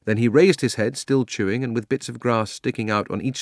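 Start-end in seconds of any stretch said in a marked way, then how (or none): none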